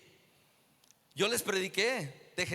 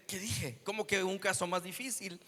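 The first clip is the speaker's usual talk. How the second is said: embarrassed mutter to himself; 2 semitones lower, 6 dB quieter than usual. Retold or imitated. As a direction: say it under your breath, caught out. Embarrassed self-talk after blunder. (murmullo avergonzado para sí mismo)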